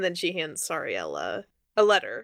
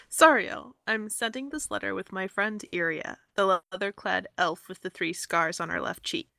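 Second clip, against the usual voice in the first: disembodied voice; 3 dB louder than usual. Acted. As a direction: ghostly voice from inside her head. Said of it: "Galena's disembodied voice read the letter".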